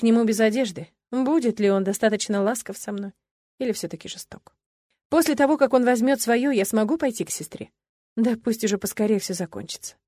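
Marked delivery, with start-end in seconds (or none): none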